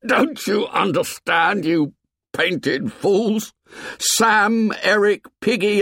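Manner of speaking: put-on high, strained, raging boy voice; Ralph, voice cracking. A narrator's reading. Ralph yells at the painted tribe, voice cracking. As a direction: let the voice crack with rage. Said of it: "His voice cracked".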